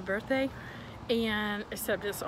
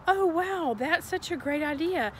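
polite refusal; 4 semitones higher than usual. Shown as a demonstration. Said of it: "You need to say".

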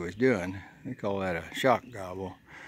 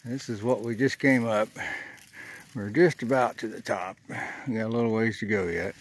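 out of breath. Real, not acted. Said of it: "I had to stop and catch my breath".

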